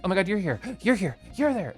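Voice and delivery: high, giddy mock greeting; high-pitched acted thrill without extra volume; imagined excited greeting. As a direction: act out spotting friend after friend. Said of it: "So I'm gonna be like".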